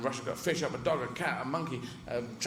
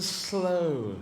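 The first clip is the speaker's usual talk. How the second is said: drawn-out "slow". Shown as a demonstration. Explaining how archaeology drags, "slow" drawn out. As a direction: stretch the word "slow". Word acts out its meaning.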